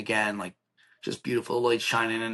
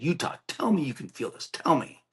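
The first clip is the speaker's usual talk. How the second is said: higher-pitched, more insistent begging; retold desperate plea; 5 semitones higher than usual. Squeezing Utah's arm with two hands, retold desperate plea. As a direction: press for an answer, pitch lifted.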